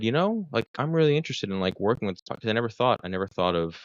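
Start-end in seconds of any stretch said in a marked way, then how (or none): 0.0-2.2 a much higher, lightly voiced professor; voicing the professor. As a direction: lift the voice up to quote her. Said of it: "she said".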